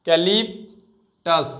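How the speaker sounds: ক্যালিপটাস drawn out syllable by syllable; very slow syllables. Shown as a demonstration. Teacher breaking the word apart for students, very slow. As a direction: spell it out with your voice, one syllable at a time. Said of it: "টি ইউ এস টাস".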